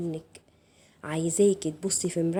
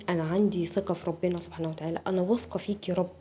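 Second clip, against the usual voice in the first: slightly softened, unhurried declaration of trust; trust from within; 4 dB quieter than usual. Shown as a demonstration. Coach modelling the inner trust before the exercise, quietly sincere. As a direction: say it inwardly and sincerely to God. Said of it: "قبل ما تعملي التمرين يكون من جواكي".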